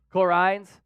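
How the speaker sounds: Aussie vowels on "Cool Rains", Rains like "rines"; Australian accent. Shown as a demonstration. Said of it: "I'm saying that in the Australian voice".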